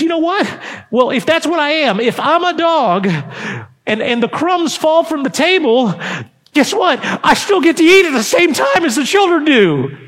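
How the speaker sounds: excited testimony. Acted. Woman voiced, rising fervour.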